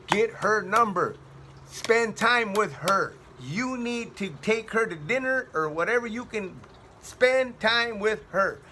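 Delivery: slow, measured "Get her number" and "spend time with her"; insistent inner prompting. Retold or imitated. Inner voice urging him in church, insistent. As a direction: spell out "spend time with her" slowly and firmly. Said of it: "something kept telling me".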